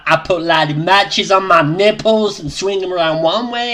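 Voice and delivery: lightly put-on accent, perhaps Welsh; mock someone in a vague Welsh-like accent; a hint of a Welsh-like accent; attempted accent, possibly Welsh. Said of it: "What accent do you think he just did".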